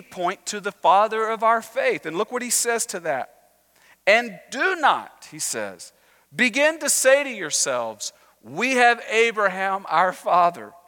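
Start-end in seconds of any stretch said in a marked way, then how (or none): 4.1-5.3 high, slow, emphatic declamation; stern prophetic warning. Acted. John the Baptist answering children of Abraham, stern warning. 6.3-10.7 raised, emphatic scripture declamation; stern prophetic warning. Acted. John the Baptist answering children of Abraham, stern warning.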